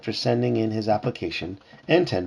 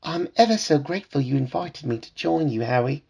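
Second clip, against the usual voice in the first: higher-pitched put-on British accent; 4 semitones higher than usual. A narrator's reading. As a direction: read Delilah's line in a British accent. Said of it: "Delilah said in a British accent".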